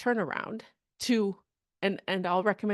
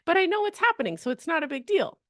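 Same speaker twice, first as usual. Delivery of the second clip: expectant; 2 semitones higher, faster than usual. Acted. Coach modelling a networker's self-talk, expectant. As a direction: voice mild certainty, lifting as it builds. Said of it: "in the energy of expectancy of".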